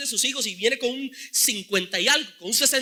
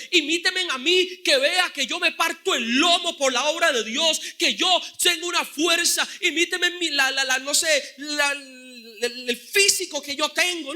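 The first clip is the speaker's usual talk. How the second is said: mock boasting. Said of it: "Él no les está diciendo".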